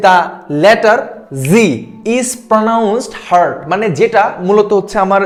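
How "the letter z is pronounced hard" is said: slow read of question. Shown as a demonstration. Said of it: "তোমার বলা হচ্ছে".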